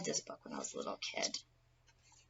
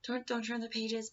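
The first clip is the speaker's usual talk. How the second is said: mock crying plea; 7 semitones higher than usual. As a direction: beg in a pretend whimpering Grover voice. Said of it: "He's, like, crying, pleading".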